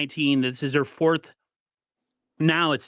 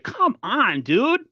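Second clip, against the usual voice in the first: retold yell; 10 semitones higher, much slower than usual. Fan replaying his yell at Brock Purdy, exasperated. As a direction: yell it at the quarterback again, half-mocking. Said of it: "I was yelling at Brock Purdy too".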